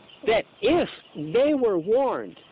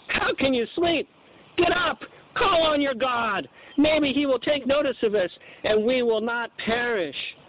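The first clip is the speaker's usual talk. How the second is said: urgent captain's shout; 6 semitones higher than usual. Acted. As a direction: rouse the sleeper in alarm, "Call on your God" slowed. Captain rousing sleeping Jonah.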